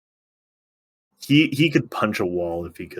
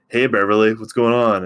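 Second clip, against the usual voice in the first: casual greeting; 3 semitones higher, 6 dB louder than usual. Retold or imitated. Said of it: "so casually comes up and is like".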